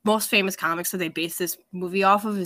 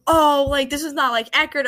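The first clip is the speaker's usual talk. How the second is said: mock confidence; 5 semitones higher, 3 dB louder than usual. Fan mimicking people online, in higher mock-confident voice. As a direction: imitate online naysayers, pitched higher. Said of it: "say that with their whole chest".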